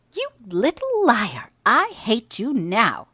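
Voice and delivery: loud, slow, high furious outburst; girl shouting at her cousin in a rage; furious panting. Acted. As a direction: spit it out in breathless rage. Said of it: "she panted".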